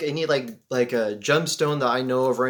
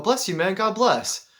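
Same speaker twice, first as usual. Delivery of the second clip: touched reply; 6 semitones higher, slower than usual. Retold or imitated. Acts out returning the blessing warmly.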